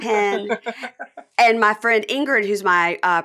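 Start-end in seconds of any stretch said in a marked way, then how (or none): 0.0-0.6 "Pen" with an overdone short e; "Pen" said awkwardly, not as "pin"; unnatural-sounding pen. Shown as a demonstration. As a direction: labour over "Pen" with the vowel of "bed". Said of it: "I can't even say it".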